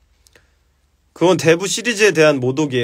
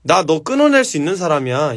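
cold cutting demo; 2 semitones lower than usual. Shown as a demonstration. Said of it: "이게 정색이에요".

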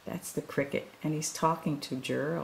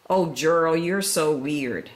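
mocking taunt; 4 dB louder than usual. Animals taunting Gerald, loud mocking sneer. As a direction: sneer it like a bully. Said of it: "the animals all sneered".

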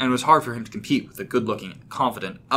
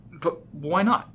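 higher-pitched good-natured question; 8 semitones higher, much slower than usual. A narrator's reading. Rob pressing James to be friends, good-naturedly. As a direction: ask lightly, with easy good nature. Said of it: "Rob asked in a good-natured tone".

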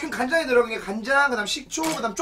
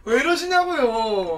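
웃음 터진 채 느리게 묻기; 웃음을 못 참고 말하기; laughing; 4 dB louder, much slower than usual. Real, not acted. 형님 요리 실수에 웃음 터짐. (웃으면서 묻기)

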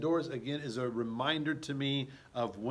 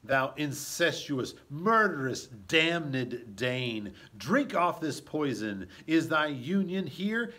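angry accusation; 2 semitones higher, 4 dB louder, slower than usual. Acted. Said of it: "Hamlet says".

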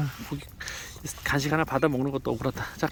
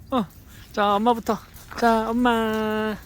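usual speaking voice

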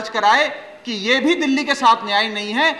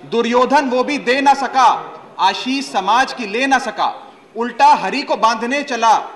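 emphatic verse recital, drawing out the line endings; poem recitation. Acted. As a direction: declaim epic verse to the assembly with weight on each line. Recites Dinkar's epic poem.

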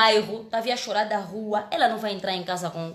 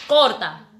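loud director's call of cut; 11 dB louder than usual. Retold or imitated. Actress imitating the director, loudly calling cut. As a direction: bark cut across the set.

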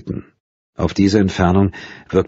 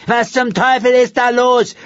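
annoyed demand; 4 dB louder than usual. A narrator's reading. Neighbour demands what's going on.

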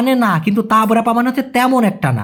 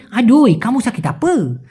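slow Malaysian slang with pulled ending; Malaysian slang drawl; 3 semitones higher, slower than usual. Retold or imitated. Senior asking sick worker, in drawling Malaysian slang. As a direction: stretch the final vowel the Malaysian way. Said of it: "আপা না বলে আপে".

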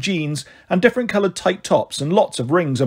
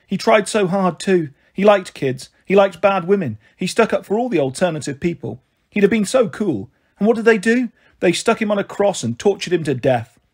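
higher-pitched voice of a mother lamenting; lightly acted, higher lament; Marigold, aggrieved; 3 semitones higher than usual. Mother going on about Jesus to her girls, aggrieved.

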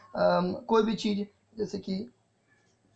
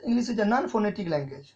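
slow dictation; much slower than usual. Shown as a demonstration. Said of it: "what is English?".

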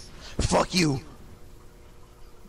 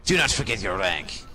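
stern master voice; 2 semitones lower than usual. Acted. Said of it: "from that voice".

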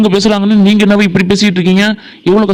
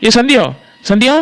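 calling out; 4 semitones higher than usual. Acted. Calling Sandhya again.

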